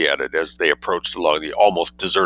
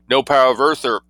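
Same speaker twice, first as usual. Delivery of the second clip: louder, higher pompous declaiming; cut-off boast; 6 semitones higher, 5 dB louder than usual. A narrator's reading. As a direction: declaim then vanish mid-word. Minister cut off mid-boast.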